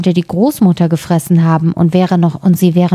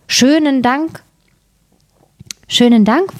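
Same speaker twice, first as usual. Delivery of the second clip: higher-pitched, lightly voiced little girl; girl's polite thanks; 7 semitones higher than usual. A narrator's reading. Red Riding Hood thanks the wolf, lightly girlish and high. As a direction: thank him in a high, childlike lilt.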